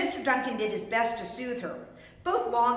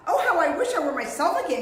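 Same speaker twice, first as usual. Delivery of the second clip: longing wish; 5 semitones higher, 4 dB louder, faster than usual. Acted. Trapped donkey longs to change back.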